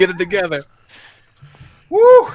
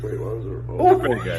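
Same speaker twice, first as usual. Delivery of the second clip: imitating voice crack; 4 semitones lower, 6 dB quieter, much slower than usual. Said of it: "Love the voice crack at the end".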